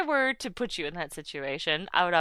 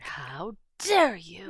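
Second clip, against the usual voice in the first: slow, dramatic mock offense; mock outrage; much slower than usual. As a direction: ham up the outrage. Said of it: "It's like".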